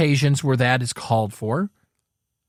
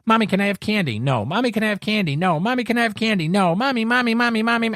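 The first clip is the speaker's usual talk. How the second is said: put-on higher, pleading child's nag; little kid begging; 5 semitones higher, faster than usual. Little kid nagging mommy for candy, higher whiny pestering. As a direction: whine it like a kid who won't quit. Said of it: "It's like a little kid".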